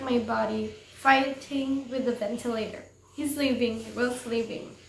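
earnest, understated read-aloud; story narration. A narrator's reading.

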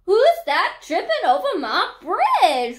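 loud, swooping troll roar. A narrator's reading. Troll challenging the second goat, roaring. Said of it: "roared the troll".

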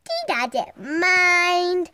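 "She doesn't mind" stretched very slowly; drawn out. Shown as a demonstration. Girl reassuring the camera about her dog, drawn out slowly. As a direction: drag every word of "She doesn't mind".

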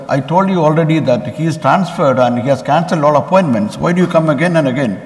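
a touch of irritation, rushing the last question; mock exasperation, speeding up at the end; lightly annoyed receptionist scolding the returning priest; mildly annoyed. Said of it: "She was little annoyed".

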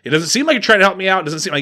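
fast sarcastic jab; sarcastic taunt. Retold or imitated. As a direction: needle him, quick and snide. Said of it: "the guy's like".

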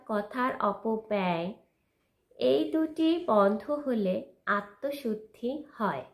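slow, measured verse with firm projection; poem recitation. Acted. Reciting a poem on self-purification to viewers, measured and declamatory. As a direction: recite deliberately, pausing after each phrase.

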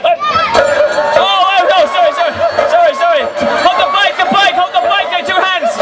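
high, hurried flustered sorry; startled and rushing to apologise; flustered alarm. Real, not acted. Bike mishap, flustered.

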